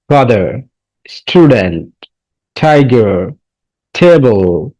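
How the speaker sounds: "Father, student, tiger, table" one by one, each drawn out and falling; reading words aloud. Shown as a demonstration. Teacher models words for students to read aloud, deliberate word-by-word reading. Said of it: "এবার জোরে পড়ো".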